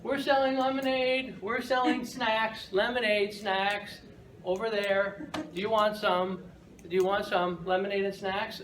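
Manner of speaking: put-on a goofy kid rattling off his sales pitch; eager kid voice. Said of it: "He comes up and he's like".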